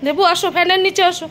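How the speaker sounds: coaxing pet talk. Real, not acted. Coaxing the dog inside.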